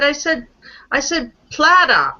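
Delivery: lightly imitated Boston accent. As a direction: mimic a Boston speaker, dropping the R in platter. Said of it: "she was from Boston".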